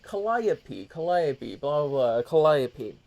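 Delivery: Calliope as kuh-LIE-uh-pee. Retold or imitated. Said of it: "he's talking about Calliope".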